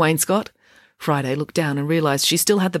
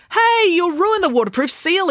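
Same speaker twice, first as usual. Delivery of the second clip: put-on much higher, louder boy's cry of alarm; a boy blurting out in alarm; alarmed exclamation; 5 dB louder than usual. A narrator's reading. Boy warns the girl about his watch, alarmed outcry. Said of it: "exclaimed Ian".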